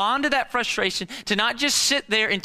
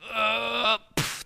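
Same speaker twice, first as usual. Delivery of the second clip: higher effort grunt, then a puff; imitated punting noise; 5 semitones higher than usual. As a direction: mime a big kick with the voice. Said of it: "and just go".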